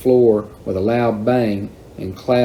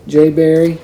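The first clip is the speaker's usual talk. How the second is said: raised, higher, louder exclamation; loud call; 6 semitones higher, 6 dB louder than usual. A narrator's reading. Shocked Daisy to her half-naked brother, loud voice. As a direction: call the name out loudly. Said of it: "she said in a loud voice".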